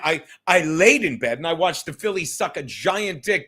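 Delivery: ordinary talk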